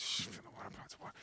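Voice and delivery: fast, unvoiced shush and order; hushing whisper. Servant hushes a doubting helper, whispering fast. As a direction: shush them and push on.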